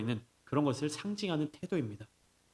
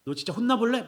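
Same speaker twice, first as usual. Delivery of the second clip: mock scolding; 2 semitones higher than usual. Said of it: "막 내가 혼내는 거예요".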